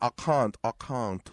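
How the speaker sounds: put-on British accent. Imitating someone who married a British director: a singer speaking with a British accent. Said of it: "Y era hablando británica".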